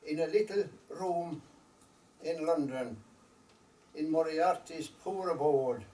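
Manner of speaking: slow, measured storytelling verse with long pauses; unhurried recital, letting each phrase settle; poem recitation. Acted. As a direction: recite it line by line as a wistful Irish ballad-poem.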